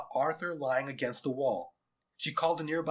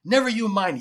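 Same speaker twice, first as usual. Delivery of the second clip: loud, raised-pitch comeback; sharp soldier's retort at high volume; yelled retort; 8 semitones higher, 10 dB louder than usual. A narrator's reading. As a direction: yell back dismissively. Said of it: "yelled back the taller soldier".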